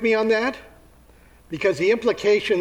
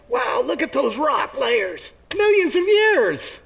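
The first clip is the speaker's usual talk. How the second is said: slow, rising to much higher marvel; awed evolutionist; 7 semitones higher, slower than usual. Acted. Evolutionist at the Grand Canyon, slowly awed. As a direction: gape in wonder at the rocks. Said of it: "an evolutionist to say".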